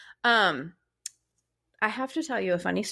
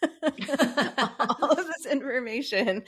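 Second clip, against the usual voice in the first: laughing through the words, drawn out; slow, giggly delivery; 6 semitones higher, much slower than usual. Real, not acted. Laughing at own plan.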